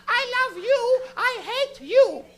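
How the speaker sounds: put-on high, slow Portuguese mom accent; Portuguese mother with a heavy accent, mixed up about her son. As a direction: play his Portuguese mother, torn between love and anger. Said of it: "a little Portuguese lady".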